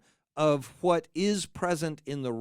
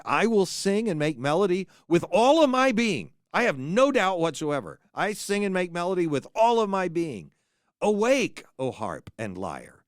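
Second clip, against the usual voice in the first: mock-triumphant recital, protesting too much; hammed-up proud declaration; 2 semitones higher, 4 dB louder than usual. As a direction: overplay the vow of faith like a boast. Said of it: "I'm going to sort of make fun of these".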